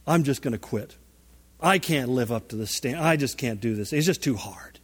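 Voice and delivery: understated discouragement, acted out; mildly defeated giving up. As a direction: give up, as if beaten by failure. Voicing temptation to give up.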